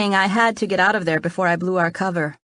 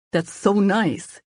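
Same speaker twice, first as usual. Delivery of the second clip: slow, sincere and gentle; mean every word, take your time; sincerely; 2 semitones higher, much slower than usual. Acted. Boyfriend moved by the friend's kind words, slow and sincere. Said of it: "he said sincerely".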